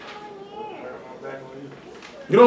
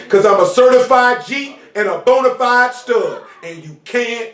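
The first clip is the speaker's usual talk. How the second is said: wrestler catchphrase; 2 semitones higher, slower than usual. Retold or imitated. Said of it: "That white boy say".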